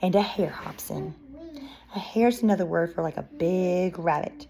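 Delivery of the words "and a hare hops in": put-on expressive read-aloud to young children; picture-book narration. Reading a bear story to children, lively narration. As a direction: read it like story time, lilting.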